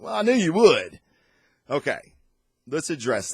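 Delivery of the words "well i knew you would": knowing wife. Retold or imitated. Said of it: "She was like".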